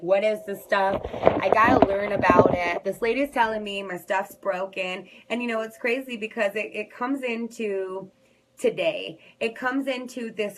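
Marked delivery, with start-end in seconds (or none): 0.0-5.1 retold frantic thought. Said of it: "I'm like".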